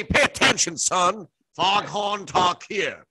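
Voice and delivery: Foghorn Leghorn. Retold or imitated. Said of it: "like, like Foghorn Leghorn".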